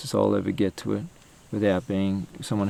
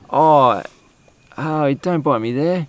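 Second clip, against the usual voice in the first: higher, slow hammed-up whimper of pain; mock pained plea; 6 semitones higher, 6 dB louder, slower than usual. Pretending ants are biting him, mock pained and slow. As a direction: ham up being bitten, drawn out. Acting out being eaten by ants.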